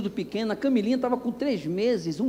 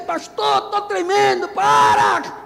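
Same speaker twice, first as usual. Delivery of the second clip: put-on the old car pleading, higher and louder; the car complaining; 8 semitones higher, 5 dB louder, much slower than usual. Old car begging the pastor to slow down, mock plea. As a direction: ham up a shaking car begging to stop. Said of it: "ele faz".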